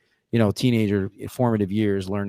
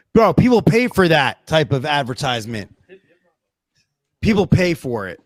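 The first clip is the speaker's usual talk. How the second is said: loud, higher-pitched emphatic objection; emphatic protest; 6 semitones higher, 7 dB louder than usual. Real, not acted. Co-host objecting to free advertisements, loud emphatic protest. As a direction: push it out loudly, punching each phrase.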